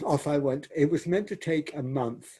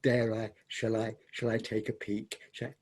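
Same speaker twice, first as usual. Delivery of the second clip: sly hesitation; 3 semitones lower, 6 dB quieter than usual. Retold or imitated. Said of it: "it was very funny".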